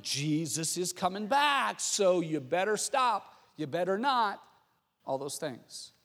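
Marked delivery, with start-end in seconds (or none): 0.0-4.4 slow, drawn-out ominous warning; finger-wagging slow caution. Acted. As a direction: stretch it out like a threat. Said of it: "sort of that warning".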